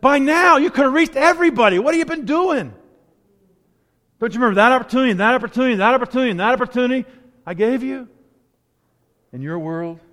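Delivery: the Lord questioning a believer, reproachful and loud; the Lord's reproach. Retold or imitated. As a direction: voice God asking what you've done. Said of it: "Lord comes and says".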